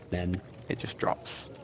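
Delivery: slow whisper; hushed narration. A narrator's reading. Narrator as crowd sees the body, slow whisper. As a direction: let the moment fall away, slowly and whispered.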